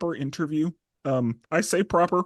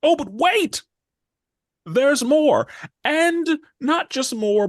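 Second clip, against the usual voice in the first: mock hype; 9 semitones higher, 5 dB louder, slower than usual. Teasing a special guest.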